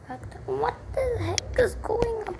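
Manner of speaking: sudden high, bewildered cry; startled outburst. Real, not acted. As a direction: blurt it out, caught off guard. Startled by dogs barking outside.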